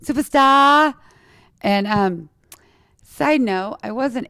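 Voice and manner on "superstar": high, slow, grand starlet voice; mock-glamorous diva declaring her arrival; Hollywood superstar. Kid at school dress-up day, as a Hollywood superstar. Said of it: "I was like".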